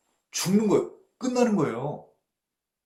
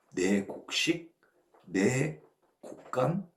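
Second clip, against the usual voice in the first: possessive rich man; 3 semitones lower, slower than usual. Retold or imitated. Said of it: "이렇게 표현했어요".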